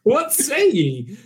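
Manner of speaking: slow pirate challenge. Acted. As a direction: drag it out like a pirate captain. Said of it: "Tim is our intergalactic pirate".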